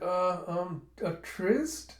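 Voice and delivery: halting, high questioning end; stall, then offer it as a guess; sheepish hesitation. Retold or imitated. Caught by Huck, offers an excuse, sheepish.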